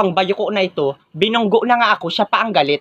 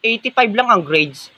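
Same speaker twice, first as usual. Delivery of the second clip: slow, laughing mockery of the teacher's verdict; gloating classmate mocks the bad grade; mocking repeat. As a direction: sneer the grade back slowly with a laugh.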